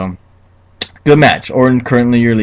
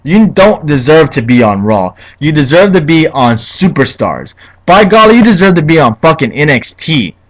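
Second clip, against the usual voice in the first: heated rant; 3 semitones higher than usual. Real, not acted. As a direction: scold the wrestler in real anger. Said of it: "I'm getting heated".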